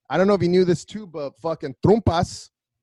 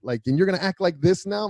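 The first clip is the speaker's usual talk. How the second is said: mock pissed-off stepdad; 3 semitones higher, faster than usual. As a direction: rattle off the grudge, lightly acted. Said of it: "he goes".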